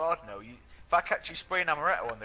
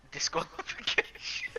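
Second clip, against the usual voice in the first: laughing through the word; slow, stifling a laugh; 3 semitones higher, slower than usual. Real, not acted. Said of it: "can't say that without laughing".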